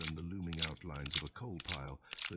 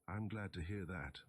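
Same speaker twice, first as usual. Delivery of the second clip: sarcastic. Acted. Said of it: "I replied sarcastically".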